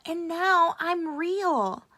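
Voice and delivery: beaming with joy; joyful thought. A narrator's reading. Rabbit delighted that the boy loves him, high and loud. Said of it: "he thought".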